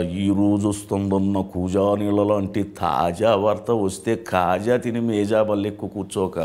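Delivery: slow, drawn-out mimicry of a film actor; Rao Gopal Rao impression. Shown as a demonstration. Mimic showing an actor's taunting rhymed dialogue, slow theatrical impression. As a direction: stretch each rhyming phrase in a measured put-on voice. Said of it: "ఇప్పుడు రావు గోపాలరావు గారు తీసుకుంటే".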